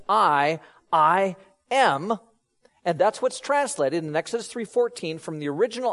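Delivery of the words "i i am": each I set apart; emphatic I. Shown as a demonstration. Preacher explaining Jesus's expression, emphatic I. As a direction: lean on I, then land on "am". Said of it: "with that kind of emphasis".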